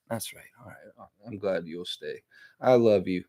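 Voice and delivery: soft, coaxing words to a pet; tender pet talk. Real, not acted. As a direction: gently reassure a little animal you love. Coaxing his pet he calls son.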